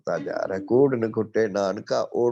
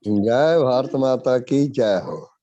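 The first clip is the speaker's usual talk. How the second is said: loud, raised, drawn-out cheer; rallying slogan; 4 semitones higher, 7 dB louder, slower than usual. Real, not acted. Hailing Mother India before the congregation, a loud rallying call. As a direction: call it out slowly to the whole gathering.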